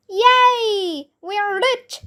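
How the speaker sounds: high-pitched cheer, pitch jumping up; excited shout. A narrator's reading. Boy cheering at news of a huge sale, high and excited. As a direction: squeal it like you just got rich. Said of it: "I shouted".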